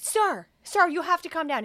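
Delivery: mock-alarmed hospital staff; imitated flustered staff. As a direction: urgently try to settle an unruly visitor. Staff trying to calm screaming man.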